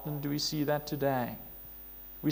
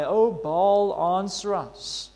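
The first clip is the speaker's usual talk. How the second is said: mild desperate cry; 3 semitones higher, 5 dB louder, much slower than usual. Retold or imitated. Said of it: "this desperate cry".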